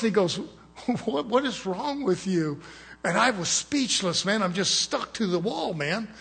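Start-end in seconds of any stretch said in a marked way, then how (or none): 1.0-2.6 in-your-face confrontation. Retold or imitated. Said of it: "come up close".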